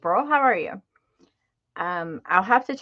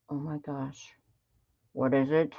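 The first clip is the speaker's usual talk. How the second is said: whispered in suspense; breathless whisper; 6 semitones lower, 7 dB quieter than usual. Real, not acted. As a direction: hush it in anticipation.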